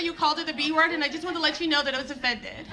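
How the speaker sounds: a light hint of a prim offended parent; offended audience member. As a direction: rush through it like a nervous fan. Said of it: "They always wanna talk to me".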